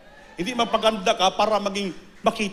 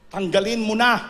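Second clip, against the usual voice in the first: "Tanggalin mo na" said louder, insisting hard; emphatic command; 3 semitones higher, 4 dB louder than usual. Acted. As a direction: press the command home to the congregation. Preacher repeats command louder. (mariing utos na "Tanggalin mo na")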